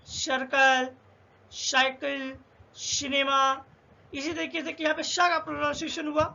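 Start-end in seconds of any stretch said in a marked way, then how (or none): 0.1-3.6 सर्कल, साइकिल, सिनेमा each begun with an S sound; C read as S. Shown as a demonstration. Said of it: "इसका pronunciation सा कब होगा".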